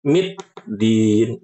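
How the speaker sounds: middin with a clean doubled d and no t; slow, careful middin; correct middin. Shown as a demonstration. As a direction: close straight onto the d in middin. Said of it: "nggak jadi baca huruf taknya".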